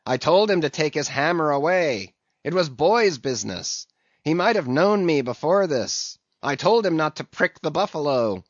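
a mutineer pacing the barricade, tense and defiant; jerked-out defiance. Acted. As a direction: spit out short defiant lines at the captain. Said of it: "jerking out such sentences as these".

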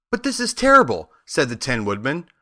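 high-pitched dismayed protest. A narrator's reading. Tin Woodman dismayed about his heart.

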